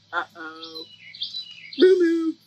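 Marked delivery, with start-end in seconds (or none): 1.8-2.3 louder double moo; honking moo. Acted. Reader warns of trouble as cow drives, honking moos. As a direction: sound the moo like a horn. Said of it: "What does that sound like?".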